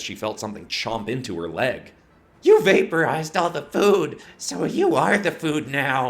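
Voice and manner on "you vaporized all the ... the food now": high, loud beast snarl; snarling monster. Acted. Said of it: "a Sphage snarled".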